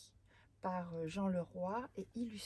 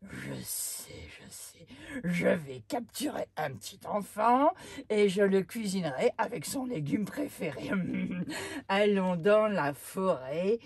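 giant voice; 10 dB louder than usual. Acted. Giant plans to catch a child.

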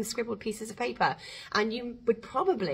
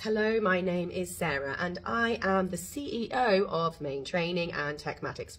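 mock formal on-camera intro, a touch lower; stiff newsreader voice; 3 semitones lower than usual. Course teacher mocks a stiff on-camera intro, in a lightly stiff newsreader voice. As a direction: play it like a wooden newsreader reading an intro. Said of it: "suddenly start talking like this".

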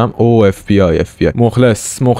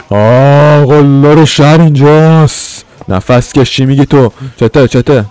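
loud, slow, put-on tough guy voice; town bully entrance; 4 semitones higher, 5 dB louder, slower than usual. Announcing himself to the street as the town bully, loud and slow. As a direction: swagger in as the town bully, drawing it out.

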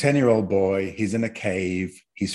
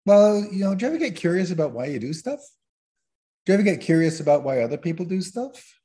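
gently curious question; 6 semitones higher than usual. Shown as a demonstration. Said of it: "You can say things like".

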